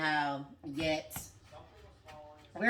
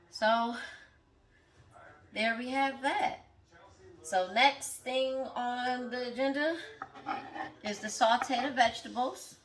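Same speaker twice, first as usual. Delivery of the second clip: eyes watering from onions; teary from chopping onions; 5 semitones higher, slower than usual. Real, not acted. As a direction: voice strained by onion fumes. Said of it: "'cause these onions is getting me".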